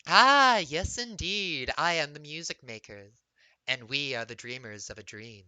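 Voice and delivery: a bird-like mimic, stuttering echoes of her own words; Kenku mimic voice. Kenku bard tells the player about her music, echoing words. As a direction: play the Kenku who parrots and repeats.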